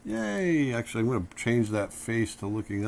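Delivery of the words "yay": high, gleeful yay; happy cheer. Acted. Teacher sketching a happy pose, high playful cheer. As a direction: cheer like a kid. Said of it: "kind of a happy pose".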